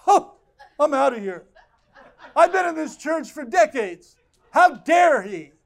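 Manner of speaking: loud, high, indignant mock huff; offended churchgoer. Pastor mimicking a hurt member leaving, hammed-up outrage. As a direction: ham up a long-time member storming out. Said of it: "You'd leave the church if I said that".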